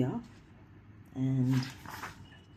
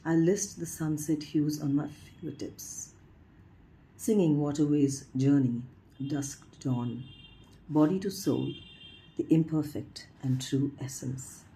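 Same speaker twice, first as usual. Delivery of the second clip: measured poem reading with pauses between phrases; poetry recitation. Acted. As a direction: lift each phrase opening, then let it fall. Reads a poem aloud.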